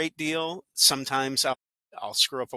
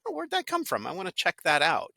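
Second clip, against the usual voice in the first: imitated surprise; 5 semitones higher than usual. A listener stumbling on a shared story, pleasantly surprised. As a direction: pitch jumps way up on the oh, then eases back. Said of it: "someone hopefully will go".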